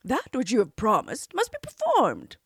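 a touch of stern father; firm, lightly voiced king. A narrator's reading. King firmly ordering his daughter, mildly stern. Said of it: "said the king sternly".

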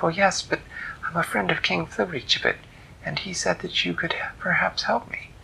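put-on a girl pleading for help; a light girlish voice; girl's voice.

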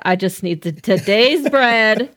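lightly prayerful plea, slowed on bread; half-joking prayer voice; a hint of pulpit prayer; mock prayer. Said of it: "I'm making Bible references".

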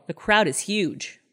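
"The crowd is huge" stated as an upbeat claim, drawn out and slow with a falling end; mimicking Scott. Host retelling the husband's phone lie, slow mock-cheerful statement. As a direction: voice the husband's cheerful fake report from Paris. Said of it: "And Scott goes".

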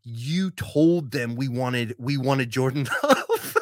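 slow, breaking into a laugh; half-laughing, slowed-down imitation of the angry guy; laughing mock accusation. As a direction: retell his accusation while cracking up. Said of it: "starts going off on Joey".

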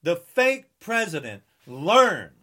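normal talking voice

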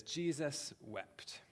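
very slow, Jesus drawn out and falling; slow solemn quote. Shown as a demonstration. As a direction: read the verse slowly, weighing each word. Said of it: "It says".

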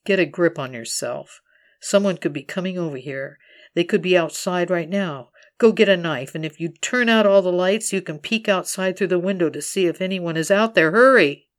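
building from firm to a loud shouted hurry; a voice in her head pushing her to act; urgent inner voice. Acted. The voice in her head urging her to grab a knife, rising to a shout. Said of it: "A voice rises out of the din to counsel me".

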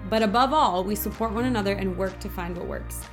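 upbeat, scripted welcome to listeners; polished podcast host opener; podcast intro read. Acted. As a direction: read the show intro with lift.

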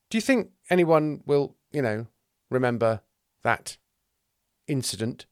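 tentative, broken-up asking; hesitant question. Acted. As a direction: pick through the words with awkward pauses. Thomas asks awkwardly about his doubt.

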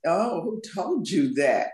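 slow, sassy challenge. Shown as a demonstration. Guest playing on her book's title, sassy. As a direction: draw out "who told you that" with a little sass. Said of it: "that little sassy".

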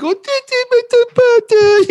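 very high, stuttering mock-Italian voice; hammed-up Italian accent, very high and stammering. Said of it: "He's like".

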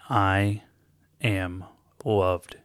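slow, spaced, firmly declared; mean every word of it; convinced affirmation; with conviction. Shown as a demonstration. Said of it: "Say this with conviction".

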